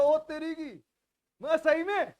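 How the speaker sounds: can't believe the good luck; pleasantly stunned; surprised delight. Retold or imitated. Narrator retells his happy surprise.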